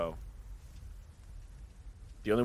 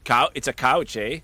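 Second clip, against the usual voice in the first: put-on Canadian accent; 3 dB louder than usual. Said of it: "What the hell accent was that?".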